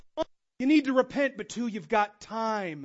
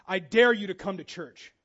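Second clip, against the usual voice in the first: stern distant god; 3 semitones lower, 4 dB louder than usual. Pretend. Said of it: "Zeus on the far mountain going".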